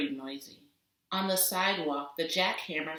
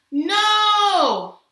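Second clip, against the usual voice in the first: high, loud, desperate cry; 15 dB louder than usual. Acted. Charlotte crying out at all the noise, loud and desperate. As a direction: wail it out in frustration. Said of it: "cries Charlotte".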